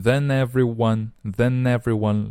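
"then everyone" run together as one word; linked words. Shown as a demonstration. Teacher showing learners how to link "then everyone" without a break. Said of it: "连读".

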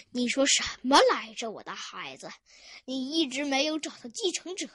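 understated low-voiced questioning; deep ghostly voice. Ghost questions his nephew about an heir, low-voiced. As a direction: question like an old ghost, lightly deepened. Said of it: "鬼魂用低沉的声音问道".

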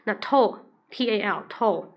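teacher spelling out the last syllable; slow sounded-out ending. Shown as a demonstration. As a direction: toll said slowly, T A L spelled letter by letter. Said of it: "capital是这样的".

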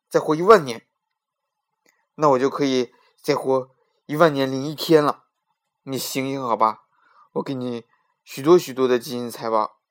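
loud, frantic begging king; panicked shouting plea. Acted. King to guards and Afanti, shouting in frantic fear. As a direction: shout it, terrified he will die next. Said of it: "吓得浑身发抖，连忙喊叫道".

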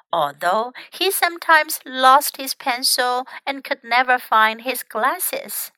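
put-on measured read-aloud for young learners; story narration. Teacher reads a story to young English learners, story narration. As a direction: read it out clearly, like a picture book.

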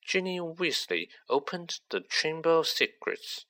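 a lightly voiced young Riddle, quietly mocking; Riddle, cold and smug. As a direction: let a cold confidence creep in under a light voice. Riddle's voice in the story.

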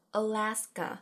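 "Alaska" as uh-LAS-ka, opening A weakened; stress on second A. Shown as a demonstration. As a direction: hit the LAS in "Alaska" after a light first A. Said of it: "第二个A才是重读的A". ("Alaska" 开头的A弱读，重音放在第二个A上)

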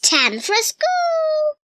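little sister Dora. A narrator's reading. Little sister announcing school, slow high childlike voice. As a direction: sing it out sweetly like a small child. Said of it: "said Dora".

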